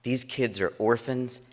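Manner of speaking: mildly hammed-up horror of a teen girl; shocked daughter. Dad imitating his daughter's shock at orphans, slow.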